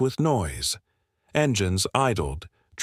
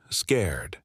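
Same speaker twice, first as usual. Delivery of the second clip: whispered; 4 semitones lower than usual. A narrator's reading. Pitying list of frightened animals.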